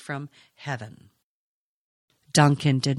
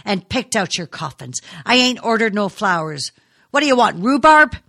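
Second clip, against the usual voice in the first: taunting; 5 semitones higher, 7 dB louder than usual. A narrator's reading. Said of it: "he taunted grimly".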